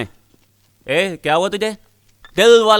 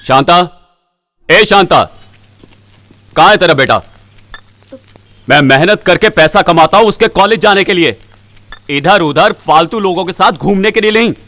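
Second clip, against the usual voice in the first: angry father. Acted. Father demanding his son from his wife, angry. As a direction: call out sharply, then berate. पिता माँ को डाँटते हुए बेटे को पूछता है.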